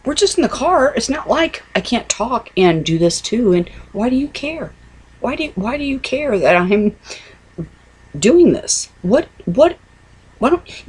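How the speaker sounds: high, indignant pushback; defensive retort. Retold or imitated. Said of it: "I go".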